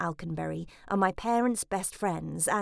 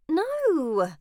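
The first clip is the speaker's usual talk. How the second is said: loud, higher bellowed no; 8 semitones higher, 4 dB louder than usual. Acted. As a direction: bark it out in protest. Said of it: "I bellowed".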